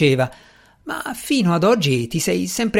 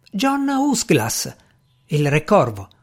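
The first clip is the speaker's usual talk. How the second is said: awed; slower than usual. Acted. Naming the feared Raven King.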